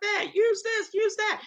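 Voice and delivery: high, hammed-up Rhode Island yous; imitating the New England in-laws in a high Rhode Island accent; mock Rhode Island accent. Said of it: "a lot of yous from them".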